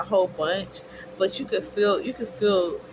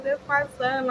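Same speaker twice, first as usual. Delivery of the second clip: high-pitched mock tearful voice; retold forced tears, pitched well up; trying to cry; 6 semitones higher than usual. New mother trying to make herself cry over her son, mock tearful. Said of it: "tried to make myself cry".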